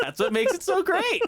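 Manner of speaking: words bubbling with laughter; laughing. Real, not acted. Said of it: "laughing through line".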